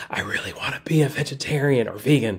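whispered voice. Retelling what people at events whisper to the speaker: imitating someone whispering. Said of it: "drop their voice down to a whisper".

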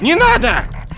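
high, loud, panicked yell.

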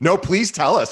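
playful ribbing. A host replies to a guest just welcomed to the show, teasing. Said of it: "I'm teasing you".

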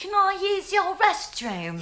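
put-on British accent. Acting out a scene on another player's cue, in a british accent. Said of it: "Do it with a British accent".

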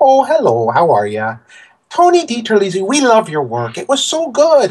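put-on swooping, sing-song Midwest accent, pitched way up. Speaker retells the art director's phone greeting, in a midwest accent. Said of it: "this woman with like a Midwest accent".

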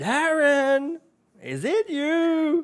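very high shout with "you" stretched long. Calling across a field to someone: shouting a name. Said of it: "you just shout".

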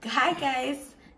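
high, laughing, broken up by laughter. Opening a channel video, greeting viewers while laughing. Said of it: "why are you laughing".

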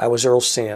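ordinary talk

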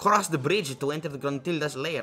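strange, vague put-on foreign accent, somewhat Russian. Reading game dialogue aloud while playing, in an odd Russian-sounding accent. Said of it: "What is that accent?".

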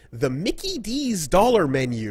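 female commercial announcer, high and swooping. Recalling an old commercial line: McDonald's commercial announcer girl. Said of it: "which had a announcer voice, announcer girl".

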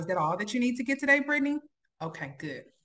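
brisk, caring, concerned, eager-to-help tone. Demonstrating how to serve a customer, sounding helpful and concerned. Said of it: "I'm helpful and I'm concerned".

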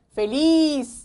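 feliz with stress on last syllable -liz. Explaining Spanish accent rules in Korean, putting stress on last syllable of feliz. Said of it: "맨 마지막 음절에 악센트가 자연스럽게 놓이는 겁니다".

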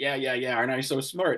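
mock straight-faced, smug put-on voice. Mocking a statement by imitating JD saying it: mock straight-faced JD. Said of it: "he says it with a straight face".

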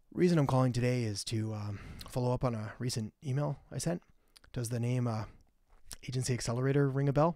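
low, flat, energyless monotone. Demonstrating the bad way to deliver a cold call, flat monotone. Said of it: "like a completely monotone".

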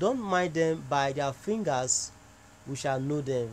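ordinary talk

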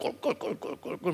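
wide-pitched gulping water sound effect.

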